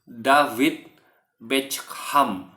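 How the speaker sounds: slow David Beckham as davit betskham; David Beckham, lafal Indonesia; Indonesian way. Shown as a demonstration. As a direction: Beckham drawn out, Indonesian style. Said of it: "orang Indonesia akan mengatakan".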